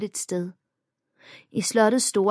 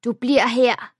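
hissed; 5 semitones higher, 5 dB louder than usual. A narrator's reading. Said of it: "Amalie greb mig i armen og hvæsede".

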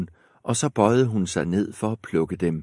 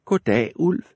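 put-on bright girlish reply, higher; a little girl answering; 6 semitones higher than usual. A narrator's reading. Red Riding Hood greets the wolf, higher girl voice. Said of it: "sagde hun".

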